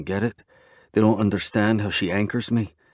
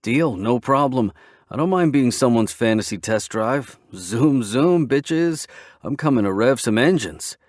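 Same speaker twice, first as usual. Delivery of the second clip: cocky excitement; 4 semitones higher, 4 dB louder than usual. Acted. Cocky friend gloating.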